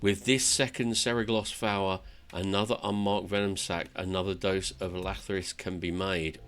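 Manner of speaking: lightly acted fantasy monologue; earnest storyteller reading game dialogue; dramatic tale telling. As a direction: recount it like an epic journey. Reads dwarf's tale in character.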